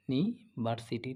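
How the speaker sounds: "নিভার্সিটি" very slowly, with "নি" held apart; slow syllable breakdown. Shown as a demonstration. Teacher sounding out the rest of the word, "নিভার্সিটি" slowly in pieces. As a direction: pull "নি" away from "ভার্সিটি". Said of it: "এরপর হচ্ছে নিভার্সিটি".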